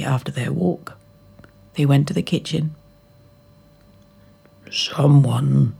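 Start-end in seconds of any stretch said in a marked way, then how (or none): 4.7-5.7 lightly voiced papa bear, gruff; a hint of a grumbling father bear; father bear mildly annoyed; mild father bear growl. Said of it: "growled the father bear".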